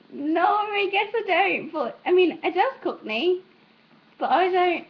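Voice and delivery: high-pitched hesitant denial; retold protest. Retells own reply to being compared.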